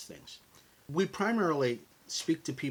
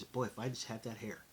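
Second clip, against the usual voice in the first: mock longing, much softer and lower; wistful inner voice; 3 semitones lower, 8 dB quieter than usual. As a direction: sigh it like a private wish. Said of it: "a voice inside of my head that says".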